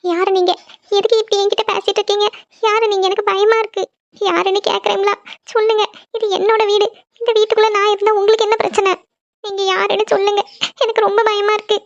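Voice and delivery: put-on scared girl questioning a ghost; frightened. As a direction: ask who is there with a rising dread.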